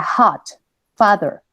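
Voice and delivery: "hot" and "father" with an open, pure A; normal Spanish A. Shown as a demonstration. Teacher models words for students, normal Spanish A. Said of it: "Ahí yo digo la normal".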